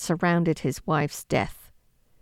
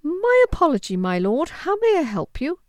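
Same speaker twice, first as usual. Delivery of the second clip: high, louder flustered apology; 9 semitones higher, 4 dB louder than usual. A narrator's reading.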